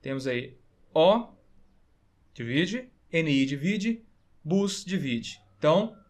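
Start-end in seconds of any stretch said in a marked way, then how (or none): 0.9-1.3 "O" said alone as the first syllable of ônibus; isolated syllable "O". Shown as a demonstration. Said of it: "vamos dividir a palavra ônibus". 3.1-3.4 "N I" said alone as the middle syllable of ônibus; isolated middle syllable "N I". Shown as a demonstration. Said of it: "vamos dividir a palavra ônibus". 4.4-4.9 "bus" said alone as the last syllable of ônibus; isolated final syllable "bus". Shown as a demonstration. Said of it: "vamos dividir a palavra ônibus".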